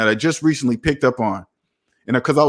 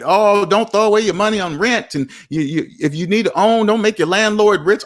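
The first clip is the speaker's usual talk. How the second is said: higher-pitched mock debt talk; mimicking people in debt; 5 semitones higher than usual. Debtor lecturing a renter about wasted money, mimicked. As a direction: parrot their preachy advice in a higher voice. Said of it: "People in debt talk like that".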